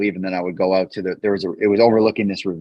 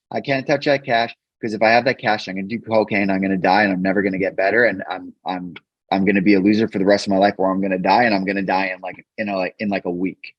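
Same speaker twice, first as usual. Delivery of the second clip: rushed confession. Retold or imitated. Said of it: "I had to say it all really fast".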